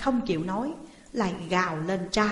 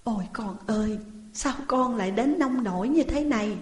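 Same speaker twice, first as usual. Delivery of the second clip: crying parents; 3 semitones higher than usual. Acted. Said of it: "Vợ chồng ông Hà khóc".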